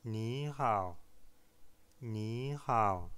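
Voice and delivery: ni hao, two dipping third tones. Shown as a demonstration. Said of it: "Il s'agit de deux fois le troisième ton". (deux troisièmes tons, qui descendent et remontent)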